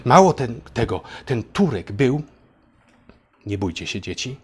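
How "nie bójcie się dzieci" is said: mock soothing. Mock reassuring children about Turk.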